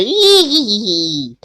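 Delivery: slow, high giggling; mock giggle. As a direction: giggle it out teasingly. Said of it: "we started laughing and stuff and say".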